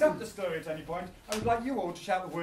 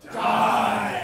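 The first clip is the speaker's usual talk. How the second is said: shouted; 6 dB louder than usual. Shown as a demonstration. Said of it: "you're gonna shout".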